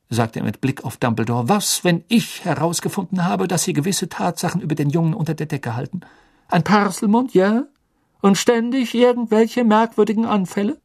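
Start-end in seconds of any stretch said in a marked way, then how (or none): 1.5-10.8 a flustered official pressing hard; agitated minister. Acted. Fudge accusing Dumbledore.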